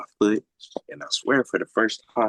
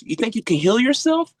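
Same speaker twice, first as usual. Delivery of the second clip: angry doctor; 6 dB louder than usual. Retold or imitated. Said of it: "She was pissed".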